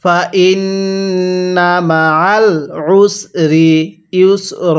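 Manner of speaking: stretched syllables, measured Arabic reading; slow recitation. Shown as a demonstration. Teacher models the word slowly for learners to copy. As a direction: draw out ওয়া র ফা না evenly. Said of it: "কিভাবে পড়তে হবে?".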